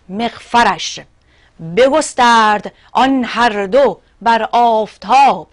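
ringing, measured epic verse; poem recitation. Acted. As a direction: declaim the verse with weight on each phrase. (شعرخوانی حماسی و رسا)

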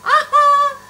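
high, loud burst of delight; triumphant, ringing exclamation; gleeful aha. Real, not acted. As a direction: let out a big pleased aha. Gleeful exclamation on live stream.

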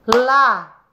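"La-go-a" in three separate beats; syllable by syllable. Shown as a demonstration. Teacher to pupils, counting syllables, La-go-a split apart. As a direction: clap out "La-go-a" one syllable at a time. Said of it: "quantos pedacinhos tem a palavrinha lagoa?".

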